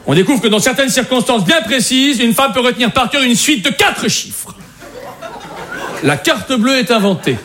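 measured, declarative history-report reading; reading out an exposé. Acted. Comedian presents women in history to the group, reading aloud. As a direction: read it out like a prepared presentation. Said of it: "on m'a demandé de lire un exposé".

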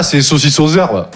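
slow, offhand dad voice; innocent dad. Retold or imitated. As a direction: play it casual and innocent. Le père, l'air innocent. (le père, faussement innocent, lentement)

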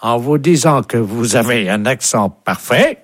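French with a mock English accent; put-on English caller. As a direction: compliment him as an Englishman speaking French. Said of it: "vous serez appelé par un Anglais". (français avec faux accent anglais)

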